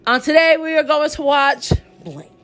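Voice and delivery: bright show host greeting; show host intro. Shown as a demonstration. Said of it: "We're gonna try this one more time".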